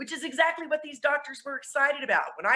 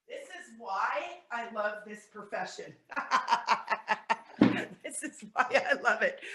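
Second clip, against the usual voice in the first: laughing it off; 3 dB quieter than usual. Real, not acted. Laughing after losing her place.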